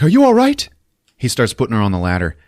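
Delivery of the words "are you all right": high, loud mock-urgent question; urgent hero. Hero reaching the woman, raised urgent voice. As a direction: call out like a rescuer rushing in. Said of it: "he's like".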